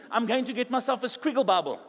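call-and-response, a bit loud; congregation repeat line. Shown as a demonstration. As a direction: lead the church to say it back. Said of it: "Say with me".

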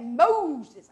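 slow, drawn-out call of Moses. Shown as a demonstration. Preacher savoring God's call to Moses, slow drawn call. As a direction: stretch the name out slowly. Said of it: "I like saying it like that".

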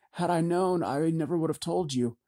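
a distraught woman begging; pleading woman. Acted. Jebra pleading.

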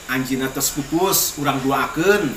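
even, measured prayer recitation; prayer for the deceased. Real, not acted. Elder praying aloud for a departed dalang, steady prayer recitation. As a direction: recite a steady, low-key blessing.

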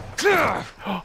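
sudden high gasp; startled gasp. Real, not acted. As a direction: gasp at a slip-up. Startled after pressing wrong button.

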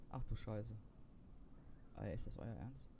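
low, muttered curse; cursing under breath. Real, not acted. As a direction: swear quietly to yourself. Frustrated at hard puzzle.

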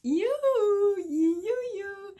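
high playful sing-song; sing-song you. Pretend. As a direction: call it out high and teasing. Playful sing-song greeting to viewers.

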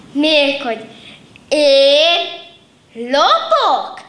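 loud, outraged antelope voice; indignant antelope. A narrator's reading. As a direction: bristle at the insult. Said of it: "háborodott fel az antilop".

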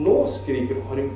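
weary adult repeating the gripe; slow repeated complaint. Retold or imitated. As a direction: draw the complaint out wearily. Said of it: "Så sier vi".

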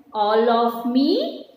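very slow recitation with drawn-out words; poem reading. Shown as a demonstration. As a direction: recite it line by line for children to follow. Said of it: "we are going to read that poem". (ನಿಧಾನವಾಗಿ ಎಳೆದು ಪದ್ಯ ಓದುವುದು)

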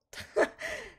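éclat de rire très aigu et incrédule. Real, not acted. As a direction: rire de stupeur, très haut. Perdue devant le mariage. (rire incrédule et aigu)

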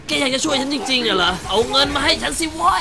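Herman-type thug barking for cash; angry demand. Acted. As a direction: demand the money. Voicing Herman demanding money.

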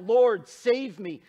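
drowning Peter begs Jesus, slow and loud; Peter's cry for help. Acted. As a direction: call out like a sinking man. Peter cries out sinking.

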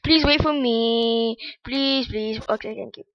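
robot voice. Real, not acted. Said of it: "You sound like a robot".

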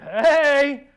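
a loud, playful call of hey; cheeky greeting, half-shouted; flirty hey. Retold or imitated. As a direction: call out to your wife like a flirt. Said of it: "I'm like".

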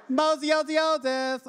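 high, loud, cracking up while calling Moses; silly God voice, laughing. Pretend. Preacher spoofing the burning bush voice, laughing. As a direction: ham it up as a goofy God calling out. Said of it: "I just ruined this scripture".

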